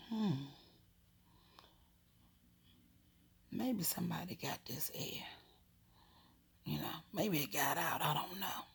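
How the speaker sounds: soft puzzled self-talk; quiet musing. Retold or imitated. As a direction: wonder under your breath. Child puzzles to herself alone.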